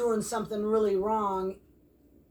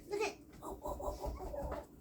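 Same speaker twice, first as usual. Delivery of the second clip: hushed; 9 semitones higher, 13 dB quieter than usual. Real, not acted. Hushed wonder at puppy's find.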